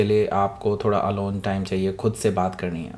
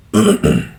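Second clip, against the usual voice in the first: throat clear; 4 semitones lower, 6 dB louder than usual. Real, not acted. Reader mentions bad throat earlier.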